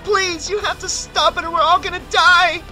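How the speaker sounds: very high, loud desperate plea; panicked yelling. A narrator's reading. Woman convinced everyone will die, panicked yelling. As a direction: yell it high, in terror. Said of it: "yelling about how everyone was about to die".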